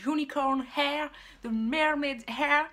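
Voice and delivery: put-on English words in a showily pronounced accent; showy English accent. Vlogger announcing the hair topic to viewers, in a showy English accent. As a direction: show off a would-be perfect English accent, drawing the words out. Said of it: "j'ai un accent anglais parfait".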